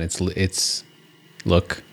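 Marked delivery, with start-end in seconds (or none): 1.4-1.8 French accent. Shown as a demonstration. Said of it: "with a French accent".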